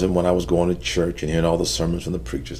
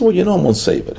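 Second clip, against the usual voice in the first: father's voice; 13 semitones higher, 4 dB louder, faster than usual. Retold or imitated. Father voiced, saving the Bible.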